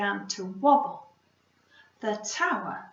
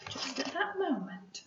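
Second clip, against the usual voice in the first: softer, building suspense; hushed suspense; 3 semitones higher, 8 dB quieter than usual. Acted.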